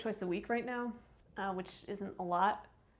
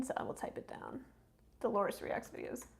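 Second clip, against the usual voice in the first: muttering to herself; 5 dB quieter than usual. Real, not acted. Muttering while typing note.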